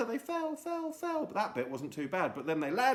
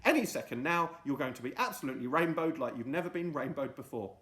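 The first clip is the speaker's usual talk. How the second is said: excited promise; faster than usual. Acted. Friday promising the crowd, fast and excited. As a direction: rattle it off with confidence.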